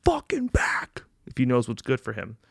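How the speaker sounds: whispered mock threat; menacing whisper. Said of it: "I said".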